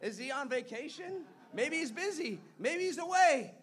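taunting. Retold or imitated. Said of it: "Elijah is taunting him".

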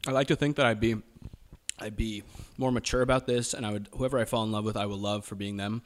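speaking in a put-on American accent; an Australian doing an American accent. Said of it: "So you're pulling out of the American accent now?".

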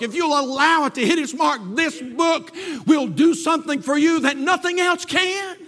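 driving scripture proclamation, rising at the close; full-force preaching. Acted. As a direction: build to a ringing pulpit claim.

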